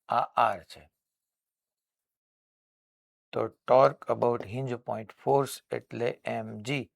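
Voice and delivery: a gently dictated solution, each word spaced; slow dictation. Shown as a demonstration. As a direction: read out the steps slowly for note-taking. (હળવું ધીમું લખાવવું)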